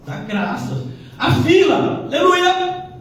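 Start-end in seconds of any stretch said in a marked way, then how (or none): 1.2-2.9 high, loud cry of mock praise; a loud, high burst of pretend joy; mock joyful aleluia. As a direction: hail the queue like a miracle.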